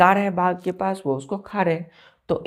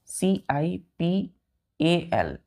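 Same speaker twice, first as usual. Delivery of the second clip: spelling out letters; much slower than usual. Shown as a demonstration. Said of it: "ध्यान दीजिए".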